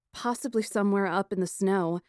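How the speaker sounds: usual speaking voice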